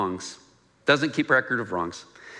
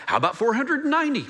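higher, laughing punchline; playful Jesus; 10 semitones higher, faster than usual. Retold or imitated. Jesus answers Peter, higher and laughing. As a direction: toss it off with a laugh. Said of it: "And Jesus is like".

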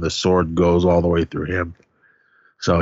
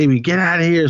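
mock yell, higher pitch at normal volume; retold yell; 8 semitones higher, faster than usual. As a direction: call it out high without really shouting. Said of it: "Buzz is yelling".

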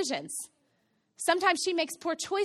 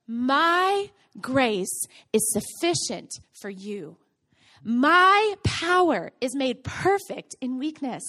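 solemn scripture reading; 3 semitones lower, much slower than usual. Acted. Quoting scripture slowly.

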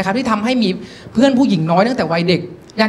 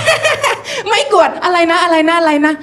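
high cackle, then teasing repeated question; mocking laughter; 7 semitones higher, slower than usual. Girls mocking the new boy's accent, gleefully teasing. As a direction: squeal with laughter, mimicking the mistake.

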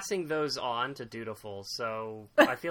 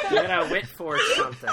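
high, loud, fast through laughter; real helpless laughing delivery; 9 dB louder, faster than usual. Real, not acted. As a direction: squeal it out while cracking up. Cracking up at own phrase.

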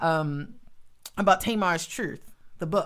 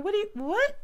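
mock disbelief. Retold disbelief at God's request.

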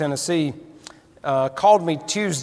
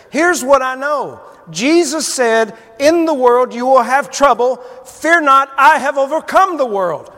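preaching at full force; 6 semitones higher, 4 dB louder than usual. Acted. Preacher telling a worried friend what he knows, ringing out. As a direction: preach it out, building to the top.

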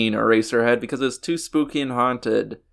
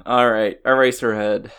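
talking with a stuffy, sniffly nose; sniffly cold voice. Real, not acted. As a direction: speak through a head cold. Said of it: "Sorry if I have the sniffles".

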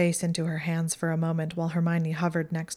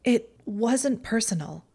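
higher, defensive, a touch unsteady; a hint of a tremor under the bravado; mildly shaken Pansy defending herself; slightly shaking; 6 semitones higher than usual. A narrator's reading. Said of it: "Pansy's voice shook slightly".

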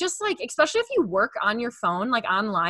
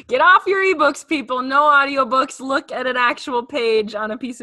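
raised, louder playful scolding; mock command; 3 semitones higher, 4 dB louder than usual. Host jokingly ordering listeners back to paper books, mock command. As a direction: order listeners around through a laugh.

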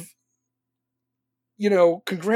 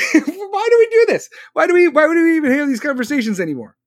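higher, louder laughing disbelief; exasperated laugh; 7 semitones higher, 6 dB louder than usual. Real, not acted. Fed up with arguing commenters, laughing exasperation, higher and louder.

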